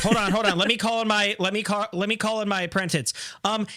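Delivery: high, busy bee boss calling his apprentice; carpenter bee voice. Pretend. Carpenter bee summoning his apprentice, high and lively. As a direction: raise the pitch and call out like a fussy bee. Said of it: "And the carpenter bee's like".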